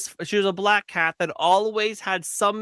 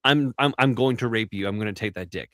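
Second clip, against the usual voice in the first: mock drunk lust; 7 semitones lower than usual. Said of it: "she's like".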